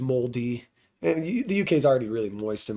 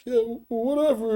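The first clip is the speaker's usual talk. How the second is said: high brush-off with a laugh in it; higher, giggly retold retort; mock dismissive; 10 semitones higher than usual. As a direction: act out laughing off a taunt. Retelling group's brush-off of taunts.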